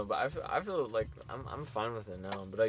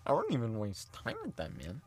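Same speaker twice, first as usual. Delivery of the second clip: ordinary delivery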